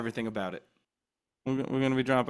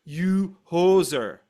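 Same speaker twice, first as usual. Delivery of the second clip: mock Canadian hoser; 4 dB louder, much slower than usual. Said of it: "the whole sketch is around".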